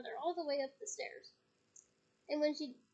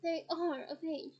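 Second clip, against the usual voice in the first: weary; slower than usual. Acted. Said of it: "said Mister Weasley wearily".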